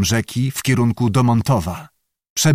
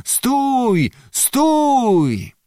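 much higher halt command; shouted order; 12 semitones higher than usual. A narrator's reading. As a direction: bark the halt across the water. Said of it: "poczęli krzyczeć na płynących".

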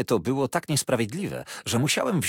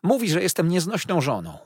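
a touch of weepy self-pity; tearful complaint; 8 semitones higher, 3 dB louder than usual. A narrator's reading. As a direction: Dora complains through tears, lightly weepy. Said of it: "płakała Dora".

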